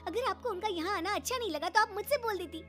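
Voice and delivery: high-pitched indignant reproach; furious confrontation. Acted. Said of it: "गुस्सा चौथे आसमान पर था".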